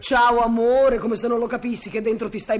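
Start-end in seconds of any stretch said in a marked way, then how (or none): 0.0-1.0 slow, drawn-out, detached ciao; mocking his indifferent goodbye. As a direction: parrot his absent-minded farewell back at him. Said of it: "Mi hai detto un ciao così indifferente, così assente".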